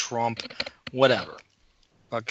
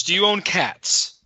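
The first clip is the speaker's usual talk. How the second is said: higher, mock innocent do you own cats; pointed question; 5 semitones higher than usual. He baits the coworkers, mock innocent question. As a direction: lead them into a trap. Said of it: "the three of you".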